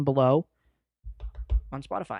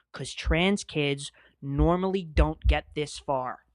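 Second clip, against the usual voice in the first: dramatic lyric reading. Shown as a demonstration. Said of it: "I'm gonna read you the bridge".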